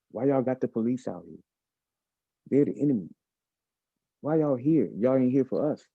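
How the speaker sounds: mounting protest; building indignant quote. Retold or imitated. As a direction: press harder with each question. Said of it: "They told me".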